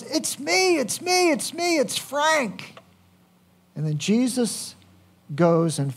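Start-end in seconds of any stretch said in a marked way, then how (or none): 0.0-2.8 Frank, excitedly identifying himself. Retold or imitated. Healed blind man assuring his doubting friends, high and excited. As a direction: imitate a healed man's eager insistence, pitched way up. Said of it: "And he goes".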